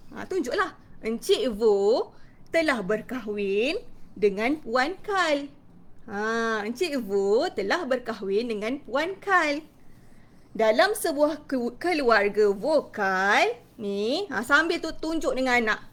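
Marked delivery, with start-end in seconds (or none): 1.0-5.5 slow, drawn-out words with swooping intonation; clear expressive storytelling. Shown as a demonstration. Teacher telling children about the vowel family, expressive storytelling. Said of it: "kuat, jelas dan penuh intonasi". 6.6-14.2 slow, drawn-out words with swooping intonation; clear expressive storytelling. Shown as a demonstration. Teacher telling children about the vowel family, expressive storytelling. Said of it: "kuat, jelas dan penuh intonasi".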